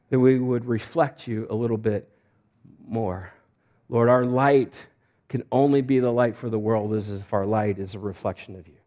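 heartfelt pastoral prayer, quieting as it closes; public prayer. Real, not acted. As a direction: pray aloud for the congregation, easing down to the amen. Leads the church in prayer.

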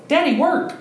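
put-on squeaky little kid pleading daddy; high child voice. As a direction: play a toddler begging dad not to go. Twins calling after dad.

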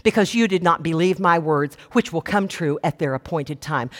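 imitating a frosty, measured rebuke; a little frosty. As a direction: pronounce it coolly, pitch sinking to the end. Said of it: "Gabriel gets a little frosty".

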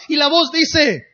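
ordinary talk

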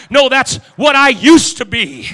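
loud defiant refusal; defiant reply. Acted. Beggar answering his accuser, loud defiance. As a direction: shout back the old label.

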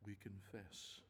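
unhurried, earnest public prayer; prayer of confession. Real, not acted. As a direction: confess to God haltingly, phrase by phrase.

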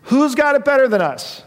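rally the team at practice; loud coach rally cry; rallying shout. Retold or imitated. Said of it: "he would say to his team at practice".

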